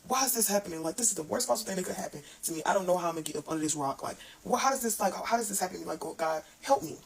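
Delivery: mock desperate plea, quickening in places; retold crying out. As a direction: imitate pleading with God, pitch jumping up at moments. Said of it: "where I've cried out to God".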